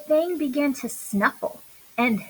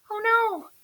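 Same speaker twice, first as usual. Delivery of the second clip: much higher startled gasp; 10 semitones higher than usual. A narrator's reading. Buddy startled by the reef, a high gasp. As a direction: gasp in sudden worry. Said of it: "gasped Buddy".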